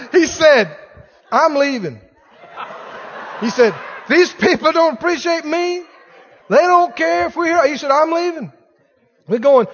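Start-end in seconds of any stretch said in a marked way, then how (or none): 1.3-9.7 loud, laughing put-out pastor; hammed-up indignation through laughter; mock offended pastor, laughing; laughing mock huff. Pastor quoted huffing, laughing.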